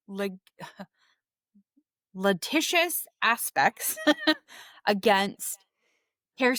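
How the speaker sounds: laughing through a word. Real, not acted.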